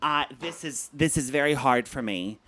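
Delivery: low, soft and halting, struggling to get it out; imitated emotional mom. Mom telling son his talk is hard for her, emotional. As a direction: play an upset mother, haltingly and quietly. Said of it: "she gets emotional and she'll say".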